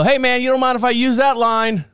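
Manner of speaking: playful retold ribbing; joking call-out. Retells his joke to husband.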